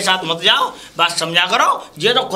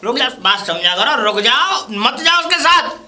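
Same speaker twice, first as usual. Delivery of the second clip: urgent plea; 4 semitones higher than usual. Acted. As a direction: urgently call them back, pitch jumping high. Pleads as they leave.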